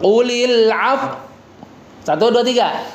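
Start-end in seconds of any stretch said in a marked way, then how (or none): 0.0-1.2 Qulil af- with lips pushed forward, slow; lips pursed. Shown as a demonstration. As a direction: round the lips into a pout on af-. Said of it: "baru monyong".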